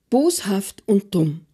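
voiceless hushed whisper; grandpa's whisper. Acted. Opa whispers his verdict to little Andreas. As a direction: breathe it out, no voice at all.

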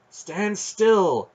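high, loud order; sharp command. A narrator's reading. Aunt's voice sharp inside the boy's head, commanding. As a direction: halt him sharply. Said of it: "sounding sharply inside Garion's head".

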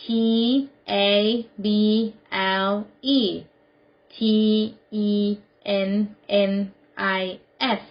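letter by letter, slowly; spelled out. Shown as a demonstration. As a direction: spell it out with a pause after each letter. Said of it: "Spell it". (สะกดทีละตัวอักษรช้า ๆ)

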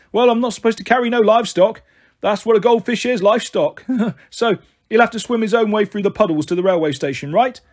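a hint of a cheeky cabbie teasing; jokey cabbie. Taxi driver joking about livestock.

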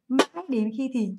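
slow, measured phrase; slow dictation. Shown as a demonstration. Teacher gives students the translation to write, slow dictation. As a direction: dictate it slowly for note-takers.

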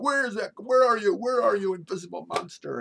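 high, loud frantic searching shout; bellowing giant moose. Acted. Giant moose hunts the invisible monster, shouting. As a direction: shout as you whirl around hunting someone. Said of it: "I'm the giant moose now".

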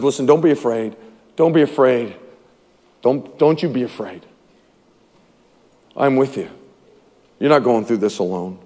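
low, measured reassurance; God's reassurance. Acted. God tells believers he is with them, low reassurance. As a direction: reassure them softly, word by word. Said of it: "And God says".

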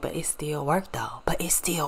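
whispered inner voice; whispering. Retold or imitated. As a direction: whisper it to yourself. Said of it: "I'm like".

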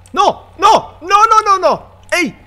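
high loud terrified no's; real panic shouts; panicked yelling. Real, not acted. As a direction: yell as it grabs you. Caught by monster again.

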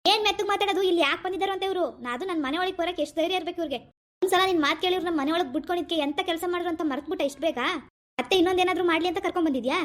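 indignant tirade of questions; angry outburst. Acted. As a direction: refuse to be hushed, keep railing. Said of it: "ಈ ಮೆತ್ತಗ್ ಮಾತಾಡಿ".

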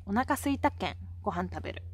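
Hakata-ben with the "県" ending; Hakata dialect. Shown as a demonstration. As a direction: say "県" as the Hakata sentence connector "ken". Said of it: "って言いますね".

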